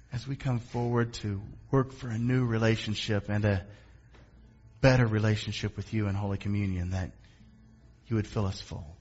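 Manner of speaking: earnest spoken prayer, unhurried with long pauses; public prayer. Real, not acted. Pastor praying before Holy Communion, reverent prayer.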